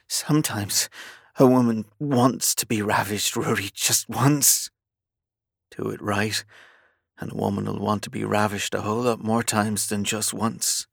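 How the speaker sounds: urgent, rising plea; urgent pleading. Acted. Heroine pleads with the captain.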